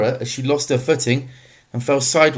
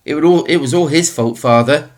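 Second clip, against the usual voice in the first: higher, louder hurried blame; rapid, high-pitched; 4 semitones higher, 5 dB louder than usual. Acted. Tesfaye blaming Mamo to his father, rapid high-pitched. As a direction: blurt the blame out fast and high. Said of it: "in a rapid, high-pitched voice".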